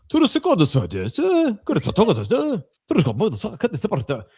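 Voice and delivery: high, mock Asian-sounding gibberish into the phone; fake foreign gibberish. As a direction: babble a fake foreign language. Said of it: "pretend that I didn't speak English".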